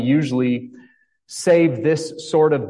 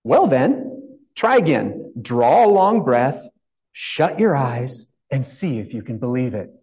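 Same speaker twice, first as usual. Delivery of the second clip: Queen coaxing. Retold or imitated. Pastor as the Queen coaching Alice, lightly coaxing. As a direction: talk her through it like a patient queen. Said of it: "the Queen said in a pitying tone".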